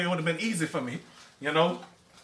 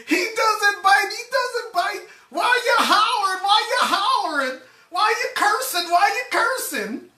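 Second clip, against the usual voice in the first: high squeaky mock voice; mocking dog owner; 14 semitones higher than usual. Teller replaying the dog owner's lines, squeaky falsetto. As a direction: parody her in falsetto.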